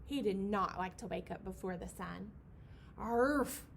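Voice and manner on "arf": gruff bellowed arf; bison bellow. Acted. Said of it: "he bellowed".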